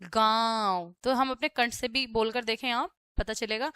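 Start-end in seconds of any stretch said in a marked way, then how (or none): 0.0-0.9 "गाँव" drawn out through throat and nose; nasalised vowel. Shown as a demonstration. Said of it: "गले से और नाक से दोनों से बोलेंगे". ("गाँव" गले और नाक दोनों से)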